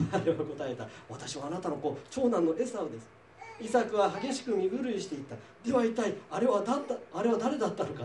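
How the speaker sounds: measured Bible reading voice with light character colour; scripture reading. Acted. Teacher reading Genesis to the class, measured reading voice. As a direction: read the passage out to the class.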